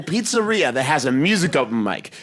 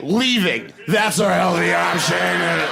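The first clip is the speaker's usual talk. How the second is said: deadpan retort; slower than usual. Retold or imitated. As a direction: shoot it back at the customer. Answering hipster customer.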